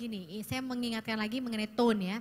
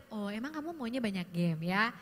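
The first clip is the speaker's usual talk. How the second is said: gentle curious tone; 4 semitones lower than usual. Shown as a demonstration. Parent asks a teen about games, gently curious. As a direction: ask it kindly, genuinely curious. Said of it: "Akan beda dengan".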